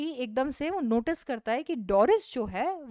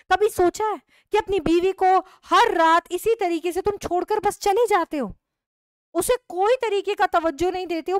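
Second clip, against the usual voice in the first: reproachful wife; 5 semitones higher than usual. Acted.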